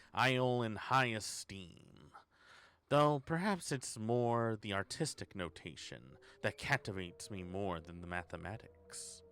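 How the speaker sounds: grand, slow Shakespearean recital of a note; slow, hammed-up stage voice; theatrical reading. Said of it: "Easy there, Shakespeare".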